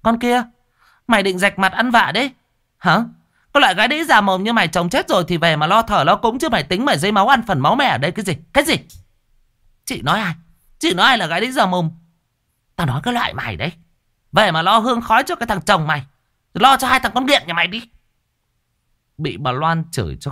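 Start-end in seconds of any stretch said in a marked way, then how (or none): 0.0-8.8 high, loud, rapid insults; sister-in-law shrieking curses, much higher and louder; vicious cursing. A narrator's reading. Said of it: "quyết sanh chín với cái con đĩ này". 9.8-11.9 high, sharp, outraged demand; indignant challenge. A narrator's reading. Widow challenging the insult. 12.8-17.9 rising into a high loud rant; contemptuous cursing. A narrator's reading. Sister-in-law keeps cursing.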